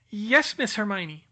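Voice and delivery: high, eager little elf; house-elf voice. Acted. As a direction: squeak it out like a nervous elf. Dobby answers.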